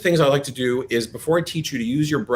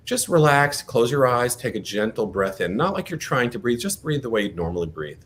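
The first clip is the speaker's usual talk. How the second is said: right in your ear. Acted. Leads a breathing exercise.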